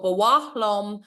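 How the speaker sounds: bawach with a breathy H in the middle; stressed H sound. Shown as a demonstration. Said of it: "with the H in it".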